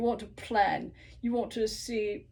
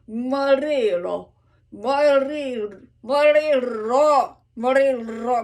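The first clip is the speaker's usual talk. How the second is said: mariro with the final O stressed, slow and louder; accent on the O; 3 semitones higher, 10 dB louder, slower than usual. Shown as a demonstration. Coach showing the accent falls on the O. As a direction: lean into the last O of mariro. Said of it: "the accent is on the O".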